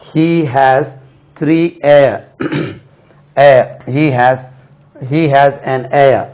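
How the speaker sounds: heir said like "air"; slow model phrases, heir with no h; silent h. Shown as a demonstration. Teacher models the word meaning successor, h left silent. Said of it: "ஹேர்னு சொல்லக்கூடாது".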